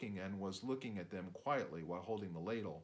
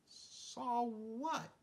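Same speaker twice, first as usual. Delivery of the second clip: put-on eager boy.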